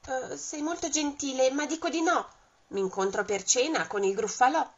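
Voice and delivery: polite little mouse turning the snake down. Acted. Topo che risponde al serpente. (topolino, voce più acuta)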